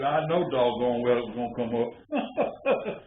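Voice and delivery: slow, chuckling; laughing grandpa. Retold or imitated. Grandpa pleased that the stump came up, slow and laughing. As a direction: say it slowly through a laugh.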